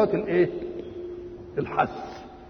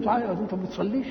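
quick negative question, reproachful; disapproving question; 2 semitones higher, 3 dB quieter, much faster than usual. Acted. Visitor challenges friend's son for not praying, quick mild disapproval. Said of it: "أنك تنكر عليه إنه ما يصليش".

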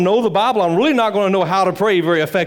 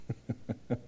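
rueful laugh; 7 semitones lower, 20 dB quieter than usual. Real, not acted. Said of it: "I'm laughing to keep from crying".

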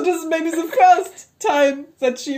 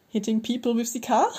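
mildly sarcastic question; dry sarcastic comeback; 4 dB quieter than usual. Acted. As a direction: ask it with understated sarcasm. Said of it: "Kay said sarcastically".

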